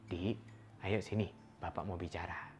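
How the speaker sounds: put-on soft, low call to a child; hushed parental beckoning; near-whisper. Shown as a demonstration. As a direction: call the child over softly, almost whispering. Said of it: "kita gunakan bisik-bisik aja".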